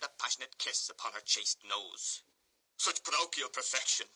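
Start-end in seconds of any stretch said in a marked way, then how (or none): 2.8-4.1 rapturous. Acted. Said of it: "exclaimed Mister Bumble rapturously".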